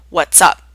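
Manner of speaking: What's up blended into a single word "whatsup"; What's up with no break between words; run together as one word. Shown as a demonstration. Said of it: "Sounds like one word".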